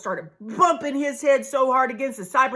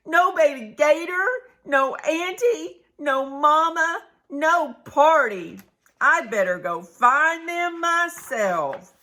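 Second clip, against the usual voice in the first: higher, slow worried possum voice; worried little possum; 5 semitones higher, slower than usual. Acted. Possum alone at home calling out worriedly. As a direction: fret like a lost little possum.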